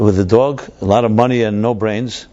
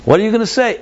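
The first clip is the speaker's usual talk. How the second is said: pitched up high, pressing for an answer; an anxious elder demanding the plan; eager question; 10 semitones higher, faster than usual. Retold or imitated. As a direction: ask him urgently, voice jumping up. Others press the old Jew.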